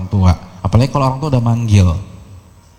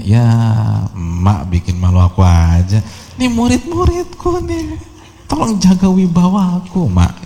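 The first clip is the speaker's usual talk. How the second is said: mock embarrassed son. Imagined son scolding his mother.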